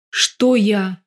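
usual speaking voice

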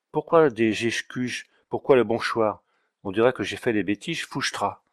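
put-on notary slipping into a mild Auvergnat accent; light Auvergnat twang, puzzled. Puzzled notary answering the marquis in an Auvergnat accent. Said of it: "monsieur imite si bien l'accent de Romagné".

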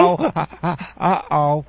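uh oh. Acted. Agent mocks angry caller.

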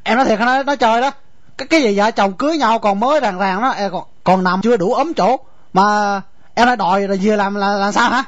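can't believe she means it, tripping over words; stunned disbelief. Acted.

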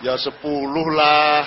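greedy bargaining. Retold or imitated. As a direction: push the price up, drawn out and bold.

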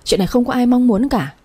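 husband pushes back at his mother, mildly irritated. Acted. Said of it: "giọng anh hơi khó chịu".

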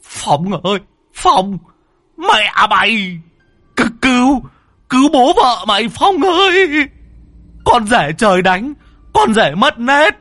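high frantic shouting, stretched on Phong ơi; frantic cry. Acted. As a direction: scream for help while cursing the son-in-law. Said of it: "cuống cuồng kêu lên".

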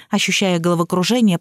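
usual speaking voice

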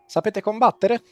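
lightly acted helmsman; helmsman's question. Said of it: "girandosi verso di te dice".

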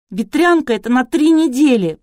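high, loud lament. A narrator's reading. Кристина laments to Artur about chickenpox, loud wail. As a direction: keep wailing, despairing. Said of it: "продолжала причитать Кристина".

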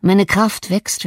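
plain reading voice

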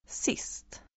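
a soft unvoiced whisper of "Sist"; whispered word. Shown as a demonstration. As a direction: breathe "Sist" with no voice at all. Teacher reading word list aloud.

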